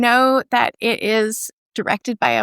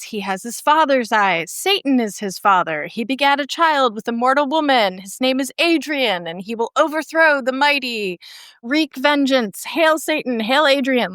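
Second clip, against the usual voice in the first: higher, grand proclaiming cult leader; cult leader proclamation; 4 semitones higher than usual. Retold or imitated. Retelling the film, narrator voices Roman proclaiming to Rosemary. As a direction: announce the antichrist like a cult leader. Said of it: "And Roman says".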